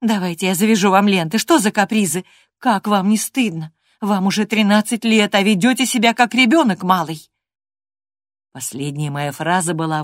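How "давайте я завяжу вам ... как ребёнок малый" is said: louder, building reproach; scolding nanny. Acted. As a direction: tell the naughty girl off properly. Nurse scolding.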